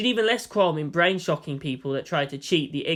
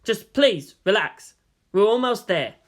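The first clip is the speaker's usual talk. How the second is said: a little louder; 4 semitones higher, 4 dB louder, slower than usual. Acted. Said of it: "A little louder".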